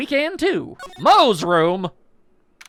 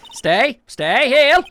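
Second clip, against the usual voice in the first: commanding shout; 6 semitones higher, 5 dB louder, much slower than usual. Acted. Commanding tiger.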